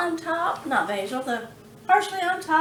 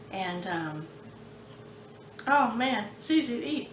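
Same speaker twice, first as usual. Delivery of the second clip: talking with a mouthful; words around a bite of food; mouth full; 4 semitones lower, 3 dB quieter than usual. Real, not acted. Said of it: "got my mouth full".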